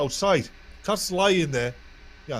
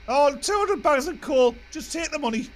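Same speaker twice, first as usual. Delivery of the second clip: squawking parrot; 14 semitones higher, 5 dB louder than usual. Acted. Parrot ordering the coal man, high squawk.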